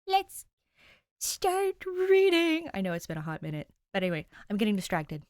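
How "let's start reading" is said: eager. Real, not acted. Host kicks off reading.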